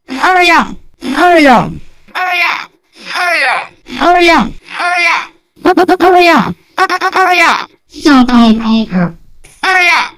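urgent call. Acted. Repeated game call urging hurry.

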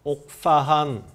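slow, syllable by syllable; sounding out words. Shown as a demonstration. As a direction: spell out each syllable slowly. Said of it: "한 번만 따라해 보세요".

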